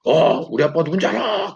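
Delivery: put-on a spoiled boy showing off his dad; bratty kid taunt. Boy taunting a soldier about his father, cheeky.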